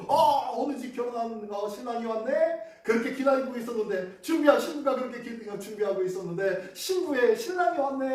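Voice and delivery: a touch of excited village chatter; curious villagers. Retold or imitated.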